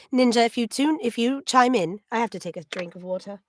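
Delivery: slightly hoarse, throat catching; frog in throat. Real, not acted. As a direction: talk through a frog in your throat. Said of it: "there's a frog in my throat".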